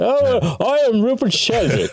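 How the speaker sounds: put-on English accent, pitched way up, very drawn out. Imitating an audiobook narrator's put-on voice: imitating Rupert Sheldrake's English accent. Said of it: "he puts on this English accent".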